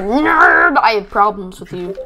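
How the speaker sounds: stretched-out mock "nerd"; mock drawl. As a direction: drag the word nerd out long. Mock drawled insult at nerds.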